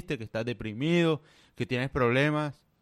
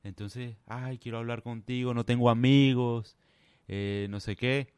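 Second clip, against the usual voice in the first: softer, slow put-on self-pity; mocking sad man; 3 semitones lower, 5 dB quieter than usual. Mocking strangers who fake sadness to pretty women, soft slow whine. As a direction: whimper it out, milking sympathy. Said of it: "y dicen".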